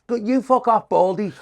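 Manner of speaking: retold shout. Woman heckler shouts back at the comic, mock shouting. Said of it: "So she shouted to me".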